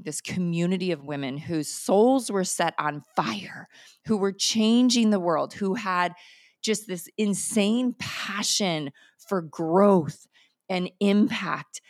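building passion. Real, not acted. Passionate climax of her story.

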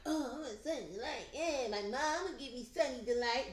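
imitated pouty whine; mock a child pouting for a treat. Child throwing a tantrum in the store, pouting. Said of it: "Like, pouting".

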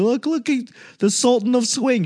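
high mocking fan voice; mock gushing fan. Mocking Yankees fans gushing over Babe Ruth, high-pitched. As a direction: gush like a starstruck old-timey fan.

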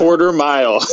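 loud mock-American accent; imitated American accent. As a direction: punch out a fake American accent. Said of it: "do an American accent".

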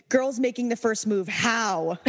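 mock-urgent question. Shown as a demonstration. Co-host reads a listener question, urgent. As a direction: read it out with comic urgency. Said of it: "I like your urgency there".

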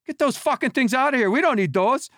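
hammed-up rage at the cleat cleaners; imitating angry player. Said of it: "He goes".

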